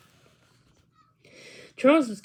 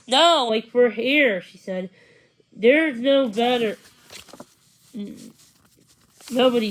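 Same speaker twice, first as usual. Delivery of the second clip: louder, bubbling over with excitement; excited gushing; 6 dB louder than usual. Acted. Angela telling the women her news, loud and thrilled. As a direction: gush about the best news ever.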